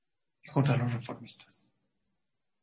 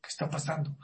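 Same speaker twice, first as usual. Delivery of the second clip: calming; 7 dB quieter than usual. Retold or imitated. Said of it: "cálmese".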